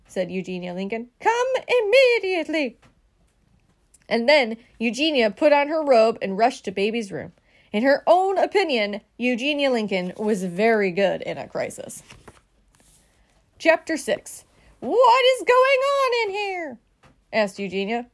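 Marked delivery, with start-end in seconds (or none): 1.2-2.8 high, imperious order; dramatic, insistent summons; urgent command. A narrator's reading. Eugenia orders the fire department over. 14.8-16.8 high, drawn-out outraged question; storybook bossy outrage; indignant demand. A narrator's reading. Eugenia bursts in demanding answers.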